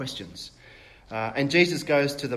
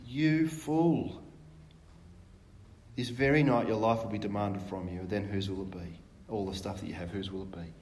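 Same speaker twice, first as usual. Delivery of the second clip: 1 sympathetic God; 5 semitones lower, 3 dB quieter than usual. Acted. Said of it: "kind of sympathetic tone".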